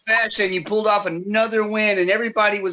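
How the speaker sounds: ringside interviewer. Pretend. Announcer interviewing Aaron after his win, light ring voice. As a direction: play the post-fight interviewer. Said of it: "announcer, Daniel, who calls the ring".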